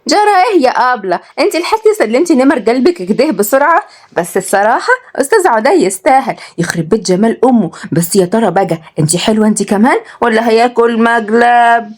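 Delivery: pry teasingly about her crush; cheeky little girl. Acted. Voices cheeky Rawhiya prying. (بنت صغيرة لمضة وفضولية)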